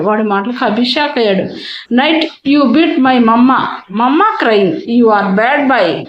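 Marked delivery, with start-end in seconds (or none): 1.9-6.0 put-on very slow, pouting child scolding; angry child. Boy scolds Abhi for hitting his mother, slow and angry. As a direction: spell out the accusation word by word. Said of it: "కోపంగా అన్నాడు".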